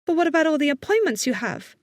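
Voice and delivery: put-on high-pitched worried young woman; anxious young assistant. A narrator's reading. Assistant worrying about her boss's appointments, anxious.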